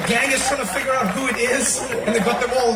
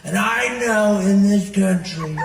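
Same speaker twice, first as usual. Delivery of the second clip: slow, loud presidential caricature; drawling impression of a rally speech; Donald Trump; 6 dB louder, much slower than usual. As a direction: stretch out every word like a speechmaker. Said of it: "It was always high, it was low".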